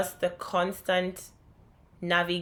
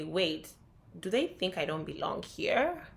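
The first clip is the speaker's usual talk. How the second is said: softer, dawning realization; quiet inner thought; 6 dB quieter than usual. Retold or imitated. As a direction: think it to yourself, hushed.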